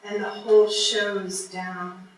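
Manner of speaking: measured poem reading, lingering in the pauses; poetry reading. Acted. Poet reading own poem to a live audience, measured poetry reading. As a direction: read it line by line, with deliberate breaks.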